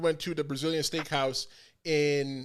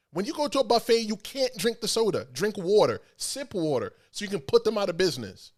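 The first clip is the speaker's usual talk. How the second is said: insistent friend. Retold or imitated. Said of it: "He goes".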